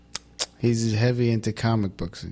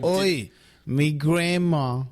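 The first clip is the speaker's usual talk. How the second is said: mock British accent; much slower than usual. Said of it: "your British accent's fucking weird".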